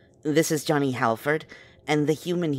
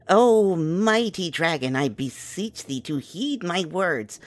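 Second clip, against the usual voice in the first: slow, formal and overblown; flattering a dragon in archaic courtly speech; grandiose flattery; slower than usual. Acted. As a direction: beseech him like a courtier before a throne. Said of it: "Dragons like being spoken to like they're the most important thing".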